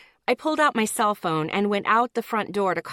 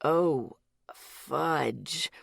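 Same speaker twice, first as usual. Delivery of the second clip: almost cursing; 6 semitones lower, 4 dB quieter than usual. A narrator's reading. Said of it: "Miles almost cursed".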